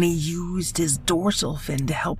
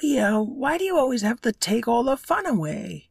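put-on high, eager little fish boy; young fish voice; 10 semitones higher than usual. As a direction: pitch it up like a small earnest fish. Luca complains.

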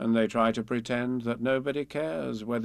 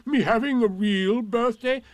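Eeyore; 11 semitones higher, 7 dB louder than usual. A narrator's reading. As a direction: stretch it out in astonishment. Eeyore astonished.

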